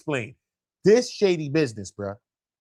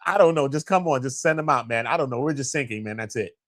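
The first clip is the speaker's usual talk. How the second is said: mock calm caller; 4 semitones lower, faster than usual. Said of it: "Who the hell talks like that".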